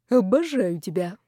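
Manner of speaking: slightly hammed-up gushing thanks; nearly tearful adoration. A narrator's reading. Loser thanks winner for mild forfeit, nearly tearful. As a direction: adore them with touched gratitude. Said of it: "едва не прослезился Колчиновский".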